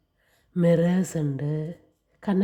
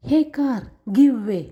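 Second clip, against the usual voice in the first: louder, higher call to the car; bus shouting; 5 semitones higher, 4 dB louder, much slower than usual. Acted. The bus calls out to the car, mock shout. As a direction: tell the car off to get out of the way. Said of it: "bus horn മുഴക്കിയിട്ട് പറഞ്ഞു".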